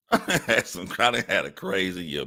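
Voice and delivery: chuckling through it; laughing. Real, not acted. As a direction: laugh while talking. Laughs recounting.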